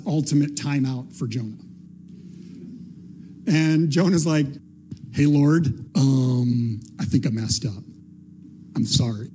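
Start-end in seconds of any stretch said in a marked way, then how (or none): 5.1-9.3 mock-contrite, sinking lower; sheepish apology. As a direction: hesitantly own up, dragging out the um. Jonah apologizing from the whale.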